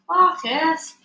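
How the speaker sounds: sudden loud call of a name; pointed shout at a classmate; accusing call. A narrator's reading. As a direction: blame Marcus out loud. Pretending stomach noise is Marcus.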